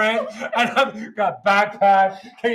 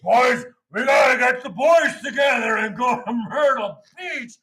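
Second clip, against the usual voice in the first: dude with mullet; 3 semitones higher, 5 dB louder than usual. Retold or imitated. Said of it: "And the dude with the mullet".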